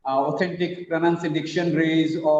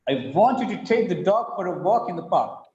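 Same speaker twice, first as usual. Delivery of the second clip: beats on "want", "take", "dog" and "walk", the small words unstressed; stressed content words. Shown as a demonstration. Teacher showing sentence rhythm to participants, "want", "take", "dog", "walk" stressed. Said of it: "want is stressed, take is stressed, dog is stressed".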